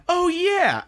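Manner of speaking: very high, loud retort; hammed-up squabbling yell; mock combative outburst. Catalea restarting the fight with Benedict, combative. Acting out renewed quarrel.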